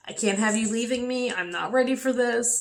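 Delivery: pleading with dying mother, voice high; retold yell. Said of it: "I pretty much kinda yelled at her".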